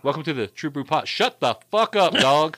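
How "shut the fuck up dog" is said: yelling at dogs. Real, not acted. Host to barking dogs mid-welcome, irritated yell. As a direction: break off and yell at the dog.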